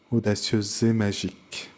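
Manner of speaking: "audacieuse et" joined with a Z sound, zé; linked words. Shown as a demonstration. Teacher shows pupils the liaisons, "audacieuse et" linked as euze-zé. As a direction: carry the Z of "audacieuse" onto "et". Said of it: "on fera attention aux liaisons".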